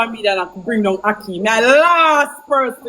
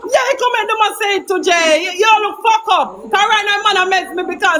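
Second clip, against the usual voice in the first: angry shouting; 5 semitones higher than usual. Real, not acted. Heated argument with Jay.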